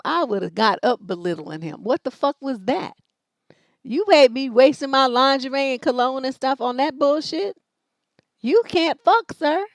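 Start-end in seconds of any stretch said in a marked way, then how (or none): 1.8-9.7 mock outrage. Woman telling off a disappointing lover, mock furious scolding. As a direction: chew him out like he wasted her night. Rant at an imagined bad lover.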